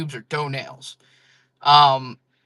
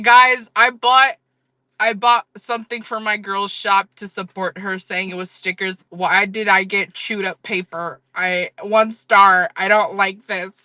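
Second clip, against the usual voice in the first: one-star review complaint; 3 semitones higher than usual. Pretend. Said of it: "she gonna leave me a one-star review".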